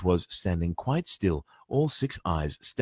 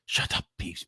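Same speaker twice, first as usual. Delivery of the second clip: urgent whisper; 4 dB quieter than usual. Acted. Hermione hushing Peeves.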